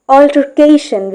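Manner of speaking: "Altercation" said carefully with main stress on "ca"; teaching syllable stress. Shown as a demonstration. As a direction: hit "ca" in "Altercation", lighter stress on "Al". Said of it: "we stress right here".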